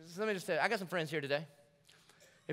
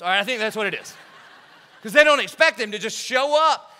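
laughing; 5 semitones higher, 13 dB louder than usual. Real, not acted.

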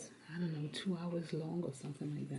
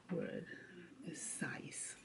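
whispering; 2 semitones lower, 7 dB quieter, much slower than usual. Real, not acted. Tutor whispers hint.

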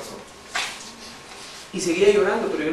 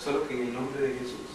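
soft sincere preaching; 5 semitones lower, 8 dB quieter than usual. Acted. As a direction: draw them in gently, almost hushed. Exhortación suave y pausada. (exhortación suave y pausada)

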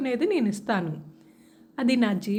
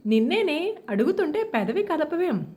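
a higher, worried plea to a silent daughter; fretting, pitched up and urgent; anxious mother; 4 semitones higher than usual. Acted. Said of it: "కంగారు పడుతూ".

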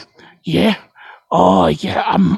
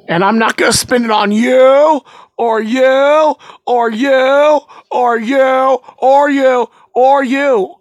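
louder or you, each jabbed; single out each one; calling out each customer, louder; pointed callout; 3 semitones higher, 3 dB louder, slower than usual. Acted.

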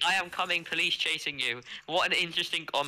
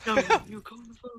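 shouting; 6 semitones higher than usual. Pretend. Yelling back, calm down.

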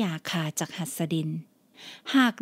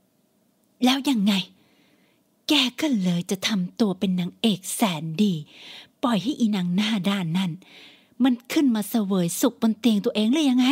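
sneering mother. Acted. Mother mocks daughter.

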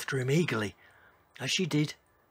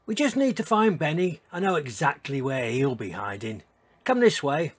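lightly voiced eager young dinosaur; 2 semitones higher, 6 dB louder than usual. Ellie urges her new friend along, eager. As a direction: lead the way, eager to play.

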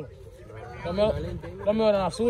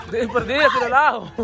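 laughing urge; 3 semitones higher than usual. Real, not acted. Urging friend while laughing.

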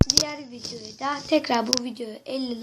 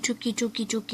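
fısıltı; 11 dB quieter than usual. Real, not acted. Kendi kendine fısıldıyor.

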